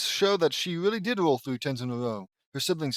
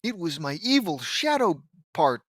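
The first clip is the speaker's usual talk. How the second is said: higher, louder put-on excuse-making; exaggerated goody-goody impersonation; mock good Lynn; 5 semitones higher, 5 dB louder than usual. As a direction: plead innocence in a hammed-up character voice. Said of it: "good Lynn's gonna be all like".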